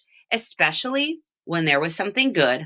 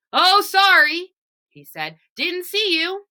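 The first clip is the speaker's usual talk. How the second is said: a light put-on voice for the driver; bulldozer driver; 12 semitones higher, 4 dB louder than usual. Driver apologizing to Walter, lightly voiced.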